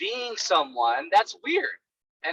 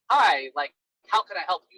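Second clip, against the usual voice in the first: polite not rude. Shown as a demonstration. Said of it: "I don't say it, like, rudely".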